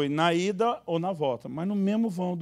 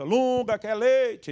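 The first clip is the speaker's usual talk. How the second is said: higher, louder voice of the wife; wife asking; 7 semitones higher, 5 dB louder, much slower than usual. Retold or imitated. Wife offering her husband milk, higher voice. Wife asks Lunga in story.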